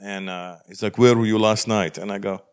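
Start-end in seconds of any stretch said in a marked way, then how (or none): 1.0-2.0 slow interrogator with mock Arab accent. Arab officer questioning the comedian, slow interrogator voice. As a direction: question a suspect, slowly. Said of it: "interrogation room".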